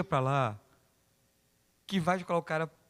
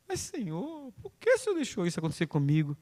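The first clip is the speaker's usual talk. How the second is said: mock wailing complaint, much higher; complaining to God; 4 semitones higher than usual. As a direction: protest to the Lord in a hurt high voice. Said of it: "O cara desapareceu".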